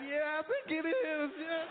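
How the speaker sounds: put-on high, slow, pleased black American accent; answering the stranger, pleased, in a black American accent; flattered reply. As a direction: accept the compliment smugly. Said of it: "And you'll be like".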